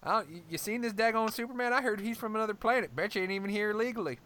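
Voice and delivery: a suspicious, grumbling redneck. Pretend. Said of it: "rednecks angry at any superhero".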